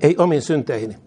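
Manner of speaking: fervent call-and-response prayer, falling ends; led prayer. Real, not acted. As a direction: lead the congregation line by line, each phrase said twice. Leads repeat-after-me prayer. (esirukous toistettavaksi)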